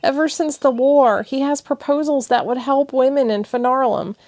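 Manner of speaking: tearful and defensive; upset girlfriend pouring it out; emotional. Acted. Thessia emotional speech.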